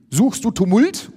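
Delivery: high-pitched angry challenge; calling out. A narrator's reading. Ulf challenging someone to a fight, calling out. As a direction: throw the question out as a challenge. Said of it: "ruft Ulf".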